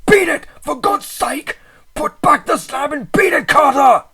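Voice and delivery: high, loud, pleading cry; piteous cry. A narrator's reading. Friend crying to narrator to flee, piteous. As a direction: beg him to run. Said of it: "a piteous cry from Warren".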